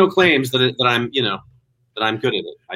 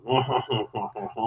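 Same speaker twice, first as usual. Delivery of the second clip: mock French "hoh-hoh-hoh"; wordless French-accent chortle; French accent noises; 4 semitones lower, 8 dB quieter than usual. Shown as a demonstration. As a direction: make only nasal-free French laugh noises. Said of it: "secret to a French accent".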